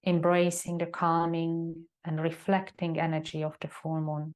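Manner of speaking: calm, unhurried yoga teacher guiding reflection; measured meditation guide with long silences; guided meditation. Acted. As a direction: settle them into stillness, leaving long pauses between phrases. Leads a meditation.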